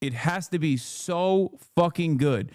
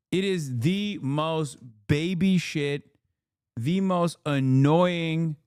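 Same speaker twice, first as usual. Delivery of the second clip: mocking disgust; 2 semitones higher, slower than usual. Real, not acted. Ranting about whiny comedians.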